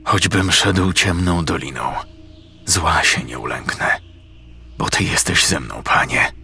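a hint of quiet devout prayer. A narrator's reading. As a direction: pray steadily, lost in focus. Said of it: "wypowiadając na głos słowa".

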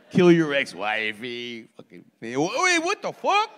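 Mexican impression. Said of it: "fucking Mexicans are like".

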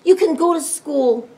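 high, loud exasperated giving-in; worn-down dad caving in; groaned consent. A narrator's reading. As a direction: relent loudly, fed up. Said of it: "groaned Pa".

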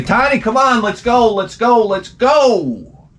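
high calling out to a dog, fading down; sing-song call to hurry the dog. Retold or imitated. Owner calling the dog to come along, high calling voice. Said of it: "you gotta say".

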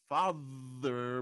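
FATHER with a clear buzzing TH in the middle; FATHER said the standard way. Shown as a demonstration. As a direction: draw out the TH in FATHER. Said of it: "in the middle of a word".

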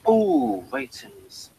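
a sudden high, eager ooh, then ratings breathed out; excited ooh. Real, not acted. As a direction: perk up at the word ratings. Sudden interest in giving ratings.

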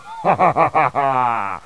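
falling evil cackle; mocking villain laugh. Villain mocks Luigi's fire flower, cackling. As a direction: cackle at a failed attack.

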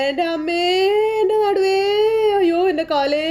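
high wailing cry after a fall; mock pained sobbing, pitched high. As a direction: wail about your back and legs like you just slipped. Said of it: "ഭയങ്കര കരച്ചില്ല".

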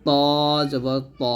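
ত জবর ত said thick and heavy; Arabic heavy ta demo. Shown as a demonstration. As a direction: make ত full and heavy in the mouth. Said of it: "তটা মোটা করে উচ্চারণ করতে হবে".

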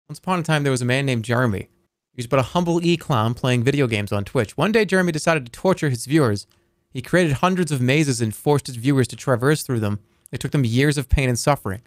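once-upon-a-time narration, a bit quick; storybook reading. Acted. Streamer reads a viewer's mock fairy tale aloud, storybook tone. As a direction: read it like a fairy tale with a straight face.

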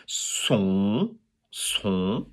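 "son" held softly without a closing n; open nasal vowel. Shown as a demonstration. Teacher correcting the sound, open nasal "son". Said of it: "it's son".

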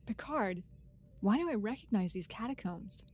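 line read in an American accent. Shown as a demonstration. Co-host showing off an attempted American accent, American accent. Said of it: "Let's hear your American accent".

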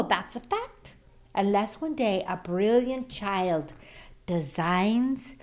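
lively storybook read-aloud; reading to children. Acted. Grandma reads the picture book to the kids, lively. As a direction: read it like bedtime for little ones.

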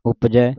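"ਉਪਜੈ", first u brief; don't stretch the u of "ਉਪਜੈ"; short u. Shown as a demonstration. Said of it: "ਇਹ ਔਂਕੜ ਦੇ ਨਾਲ ਹੈ".

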